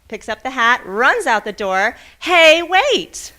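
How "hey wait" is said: higher, louder call after him. Acted. Boy calling the old man back, higher and louder. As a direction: shout for him to wait.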